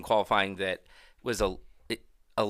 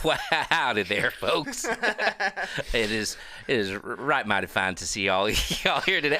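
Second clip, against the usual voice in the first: mock Southern accent. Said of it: "do this whole episode in character".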